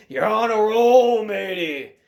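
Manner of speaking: big drawn-out holler of praise; loud congratulating yell, falling off at the end; cheering friend. Retold or imitated. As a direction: shout it back across the docks, high and long. Friend cheering back across docks.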